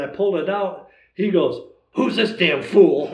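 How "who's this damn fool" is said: loud, slow quote broken by laughter; laughing quote. Retold or imitated. Retelling the old archer's teasing line, laughing loudly. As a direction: laugh your way through the old friend's joke.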